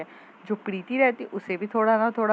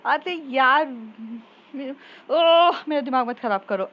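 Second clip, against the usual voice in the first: loud, higher fed-up snap; exasperated outburst; 4 semitones higher, 6 dB louder than usual. Acted. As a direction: burst out, done with the nagging. Annoyed friend snapping back. (झुंझलाकर ज़ोर से बोलना)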